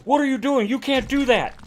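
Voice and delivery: high, incredulous imitation of a chef scolding; mock Gordon Ramsay. Telling a Kitchen Nightmares story, mimicking Ramsay's high incredulous scolding. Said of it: "And Ramsay's like".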